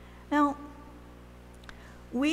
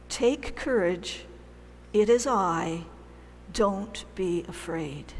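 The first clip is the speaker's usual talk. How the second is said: calm reassurance; 2 semitones lower, slower than usual. Acted. Voicing Jesus reassuring disciples.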